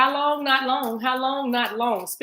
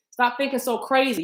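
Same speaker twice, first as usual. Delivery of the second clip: a hint of a scolding inner critic, pitched up; 5 semitones higher than usual. Reader's own inner critic, lightly voiced and scolding. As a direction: nag yourself like the doubting voice inside. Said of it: "I talked about that inner critic".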